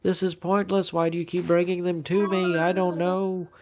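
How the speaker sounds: a hint of a fed-up museum owl. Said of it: "the owl looks and says".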